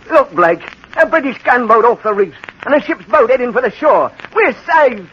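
urgent, joyful announcing; excited sighting. Acted. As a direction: call out the rescue with rising excitement. Sights a rescue ship.

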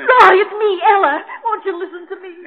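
high, loud crying plea; wife begs husband through her crying; tearful plea. Acted. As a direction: beg him through tears. Wife pleads in tears.

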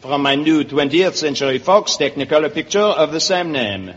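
lightly put-on Frenchman; French accent. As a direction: plug it in a mild French accent. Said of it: "It is La Belle France".

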